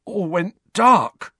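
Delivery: high, slow hoarse voice; hoarse, shuddering boy. A narrator's reading. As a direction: rasp it out slowly, badly shaken. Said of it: "Dudley said hoarsely".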